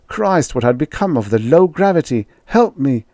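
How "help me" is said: raised, urgent plea; calling for help. A narrator's reading. Staggering Holbrook calling for help. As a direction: call out for help.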